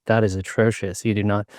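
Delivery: appalled Brit imitation in a British accent; put-on British accent, scolding; mock British accent. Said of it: "if I do a British accent for Brits".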